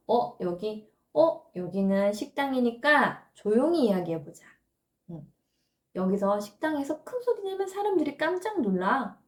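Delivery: gentle, unhurried parent voice; calm explaining. Shown as a demonstration. Parent gently telling a toddler to hush in a restaurant, calm. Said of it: "조용히 이야기하는 곳이라는 걸 알려주면".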